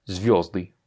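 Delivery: "звёзды" with the accent on звё; stress on yo. Shown as a demonstration. Teacher repeats the word for stars, stressing ё. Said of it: "L'accent tonique est sur le yo".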